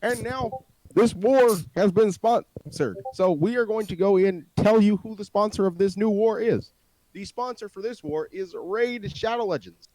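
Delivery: slow mock-presidential sponsor read; lightly imitated president reading an ad; Obama. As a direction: announce the sponsor like a halting statesman. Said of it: "Obama here".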